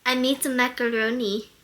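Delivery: lightly attempted Russian accent; a hint of mock Russian. Shown as a demonstration. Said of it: "That does not sound Russian".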